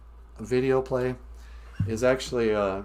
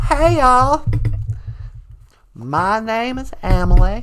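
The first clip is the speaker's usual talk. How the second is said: loud puppet greeting; 3 semitones higher, 3 dB louder than usual. Acted. Puppet Emily greeting the viewers loudly. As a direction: call out a cheery hello.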